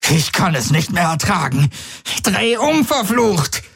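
high, frantic pleading voice; panicked. Acted. Jun begs Galen to turn back, high panicked pleading. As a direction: near hysteria, begging him to turn. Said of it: "Sein Blick flackerte vor Panik".

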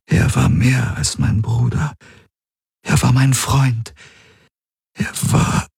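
high, halting, voice fading out at the end; grieving. A narrator's reading. Ylana mourning the brother who betrayed her, grieving.

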